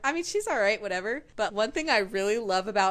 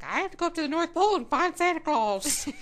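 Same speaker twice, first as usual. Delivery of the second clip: higher, airy mock believer voice; silly dreamy voice; 8 semitones higher than usual. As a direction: play a naive dreamer. Mocking churchgoer assistant.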